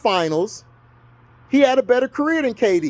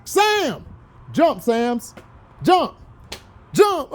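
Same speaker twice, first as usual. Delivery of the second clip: mock commanding principal; much slower than usual. Quoting Lean On Me, principal ordering Sams to jump, hammed-up. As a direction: push him, each jump more insistent. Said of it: "What did my boy say on Lean On Me?".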